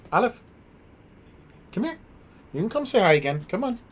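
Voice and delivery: high coaxing puppy voice; pet talk. Real, not acted. Streamer coaxes her dog to come say hi, high pet talk.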